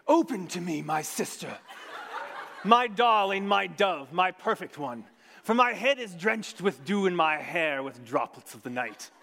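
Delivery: a hint of an eager suitor calling at the door; the man. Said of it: "And then the man comes".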